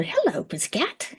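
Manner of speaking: high, soft greeting to a pet; cooing to cat. Real, not acted. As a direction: coo it sweetly to the cat. Greeting a cat mid-story.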